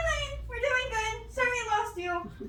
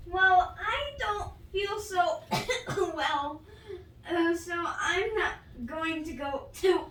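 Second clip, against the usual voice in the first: faking sick. Pretend. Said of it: "act like you're sick".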